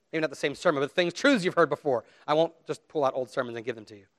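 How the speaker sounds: usual speaking voice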